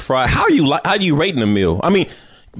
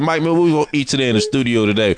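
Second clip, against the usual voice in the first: a rapper's voice; faster than usual. Retold or imitated. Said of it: "you sound like a rapper right now".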